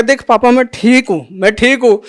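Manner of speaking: put-on a boy jumping up: papa I'm fine; excited little son. Son jumps up, insists he's fine. (ऊँची, उत्साहित बच्चे की आवाज़)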